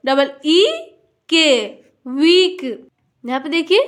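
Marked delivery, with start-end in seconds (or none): 2.1-2.6 वीक with a drawn-out ee; long ee. Shown as a demonstration. Teacher reading a double E word, stretched वीक. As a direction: hold the vowel in वीक before the k. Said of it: "थोड़ा लंबा होगा".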